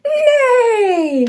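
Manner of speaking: high whinnying neigh; whinny like a horse. Shown as a demonstration. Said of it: "They go like that".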